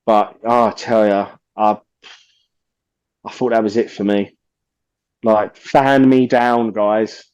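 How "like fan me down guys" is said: mock faint. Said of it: "I am struggling here".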